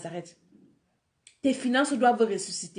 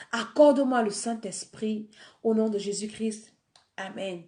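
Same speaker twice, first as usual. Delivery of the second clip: earnest spoken prayer of repentance. Acted. Preacher leading listeners in a prayer of repentance. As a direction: lead the prayer line by line, pleading.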